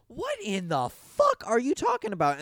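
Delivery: high, incredulous outburst; mock disgust. Podcaster voicing his own disgust at the creepy cop, high and incredulous. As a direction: recoil in disbelief. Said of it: "I'm like".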